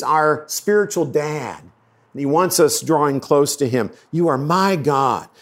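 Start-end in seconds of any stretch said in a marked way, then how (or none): 4.1-5.3 "my" picked out as the key word; stress on my. Shown as a demonstration. Preacher repeating David's verse about closeness, stress on "my". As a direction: lean on "my" within an even line. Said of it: "Emphasis on the word my".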